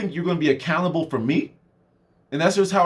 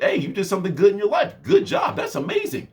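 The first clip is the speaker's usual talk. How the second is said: ever higher, hammed-up cheering; mock praise; 4 semitones higher than usual. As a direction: gush over a friend's small win.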